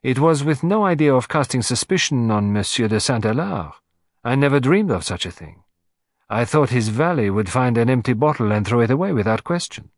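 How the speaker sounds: firm and upright, a hint of pride; proud old lady. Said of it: "She drew herself up to her full height".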